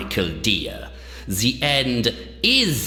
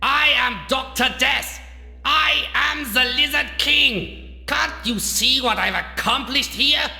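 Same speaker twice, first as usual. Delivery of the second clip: raised, higher-pitched megalomaniac declaiming; enraged villain rant; 5 semitones higher than usual. Acted. Doctor proclaiming his power to his mocker, enraged. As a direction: build to a commanding cry.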